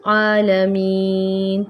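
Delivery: आलमीन held very slow and drawn out; stretched ending. Shown as a demonstration. Teacher stretches the verse end, slow. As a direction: draw out the last vowel. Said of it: "तीन हरकत लंबा कर देते".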